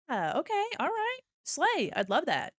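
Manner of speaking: ordinary talk, nothing marked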